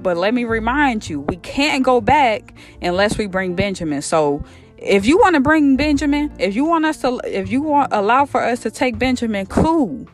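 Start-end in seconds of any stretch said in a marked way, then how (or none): 4.0-10.1 high-pitched, indignant reasoning with a parent; mock-respectful protest from a fed-up son; acted exasperated pushback. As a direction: argue back, pitch climbing at the peak. Son argues firmly with old father.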